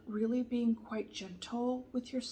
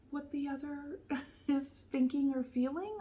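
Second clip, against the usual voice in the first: higher voice with a real laugh breaking in; 5 semitones higher than usual. Real, not acted. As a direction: let a sympathetic laugh slip in mid-sentence. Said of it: "I'm laughing because I know what that's like".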